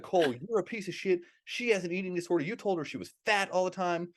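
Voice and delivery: a touch of mock outrage at Cole; mock accusing. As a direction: lightly imitate everyone ganging up on him. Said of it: "Be like".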